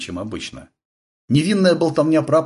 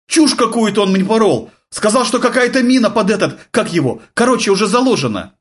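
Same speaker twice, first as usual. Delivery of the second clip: higher, louder, rushed; flustered blurting; 11 semitones higher, 5 dB louder than usual. A narrator's reading. Flustered sergeant blurting out the news to his officer. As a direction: blurt it out in a panic.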